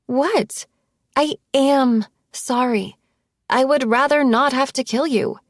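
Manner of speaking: exasperated, testy reply; irritated. A narrator's reading. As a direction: snap back, annoyed at being doubted.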